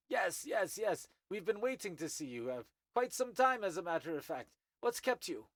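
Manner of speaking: put-on high, cordial old insectoid voice; wizened Thri-kreen. Old Thri-kreen greets the young newcomer, high and polite.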